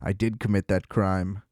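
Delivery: low, soft deadpan admission; calm mock confession. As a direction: imitate a suspect confessing with total composure. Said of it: "like, a very calm".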